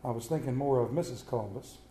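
low, soft, understated retort; calm reply. Retold or imitated. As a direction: deliver the punchline calmly and quietly. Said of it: "looked at her very calmly and said".

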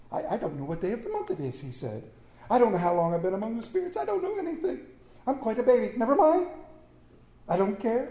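fast, tumbling flustered words; lightly voiced old man in a daze; giddy Scrooge. Scrooge babbling in wonder.

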